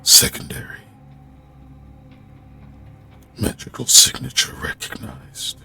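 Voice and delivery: low gravelly machine voice. Acted. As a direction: rasp it out like a stone guardian. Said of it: "doing the gravelly voice".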